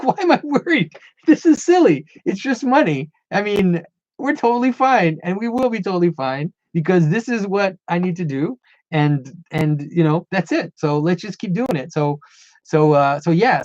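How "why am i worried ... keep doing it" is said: relieved self-talk. Retold or imitated. Relieved self-talk after wife's reassurance.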